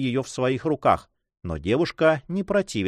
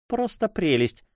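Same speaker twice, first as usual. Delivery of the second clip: put-on lightly exclaimed in a higher, girlish silvery voice; silvery exclamation; 8 semitones higher than usual. A narrator's reading. Young woman delighted with the corvette, silvery exclamation. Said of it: "вскричала она своим серебристым голосом".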